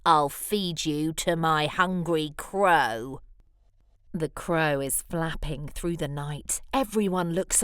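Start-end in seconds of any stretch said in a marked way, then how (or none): 0.1-3.2 a touch of villainous anger; mild angry threat. Acted. Lizard threatening Superworm, low mild menace. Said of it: "flicks an angry tail".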